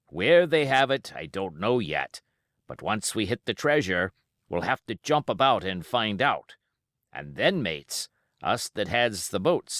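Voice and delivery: lightly voiced old sea cook, boastful to his mates; a hint of a cunning pirate rallying the crew; Silver, pirate voice.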